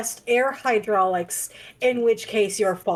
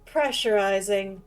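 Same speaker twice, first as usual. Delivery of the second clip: flat mechanical robot voice. Acted. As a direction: speak like a machine powering up. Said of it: "I can make my s-, voice sound like a robot".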